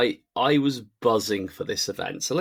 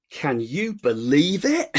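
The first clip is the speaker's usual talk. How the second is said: catchphrase; 3 semitones higher, much slower than usual. Pretend. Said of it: "I'm gonna say four words".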